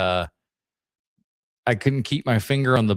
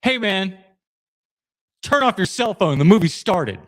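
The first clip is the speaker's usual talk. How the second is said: polite request; 7 semitones higher than usual. Retold or imitated. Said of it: "So I'm just like".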